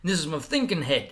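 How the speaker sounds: defensive and a bit too intense; coming in hot. Retold or imitated. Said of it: "I'm coming in hot".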